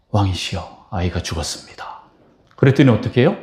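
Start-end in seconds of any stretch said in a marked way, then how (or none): 0.1-2.0 mild hushed report of a death; hushed messenger. Retold or imitated. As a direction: deliver the bad news softly and low.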